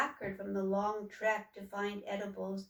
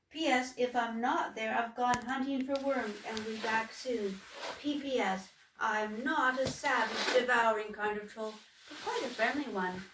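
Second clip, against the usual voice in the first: troll writing the mayor. Acted. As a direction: read it like a humble troll's careful letter. Letter postscript continues.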